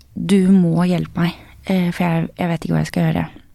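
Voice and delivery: ordinary talk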